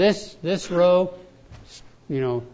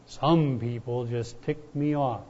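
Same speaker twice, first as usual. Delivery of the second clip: mock voice of God; 4 semitones lower, slower than usual. Voice from heaven, joke.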